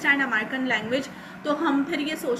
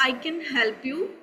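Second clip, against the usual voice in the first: Pakistani style. Shown as a demonstration. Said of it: "पहले मैंने कहा था".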